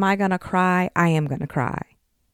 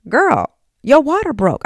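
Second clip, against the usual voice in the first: higher, louder, urgent call; cousin's alarm; 9 semitones higher, 6 dB louder than usual. Retold or imitated. Cousin quoted on phone.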